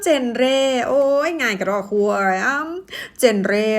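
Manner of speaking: cocky misreading of "genre" as jen-ray; naive wrong reading. Acted. Overconfident learner finds it very easy, naive "genre" as jen-ray. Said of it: "จริงๆ มันไม่ใช่ภาษาอังกฤษ".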